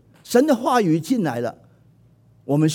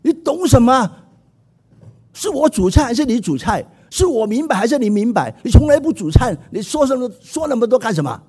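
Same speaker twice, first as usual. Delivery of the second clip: retort; 6 semitones higher, 3 dB louder than usual. Retold or imitated. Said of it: "马上就反驳了".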